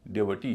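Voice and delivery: "डेवटी" with a short middle vowel and heavy final ee; correct pronunciation. Shown as a demonstration. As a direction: stress the last syllable of "डेवटी". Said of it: "इसका सही उच्चारण डिवोटी नहीं है".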